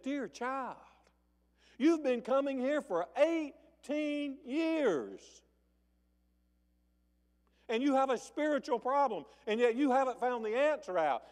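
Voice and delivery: Jesus gently comforting the suffering woman; tender care. Acted. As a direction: speak it with loving, tender care. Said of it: "he had loving, tender care".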